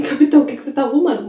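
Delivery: hurried, mildly desperate plea. Retold or imitated. Rukia pleading with her captain, mildly desperate. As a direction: rush the question like she fears the answer. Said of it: "Um pouco mais desesperada".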